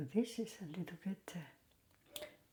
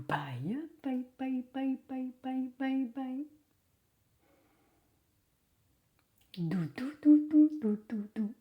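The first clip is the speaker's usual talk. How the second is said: put-on kids show host. Cooing goodbye to baby Florence.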